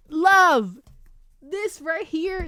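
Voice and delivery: a loud, swooning cry of love; swooning exclamation. Real, not acted. Book fan swooning to viewers over the lovers. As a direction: belt out the word like you're overwhelmed.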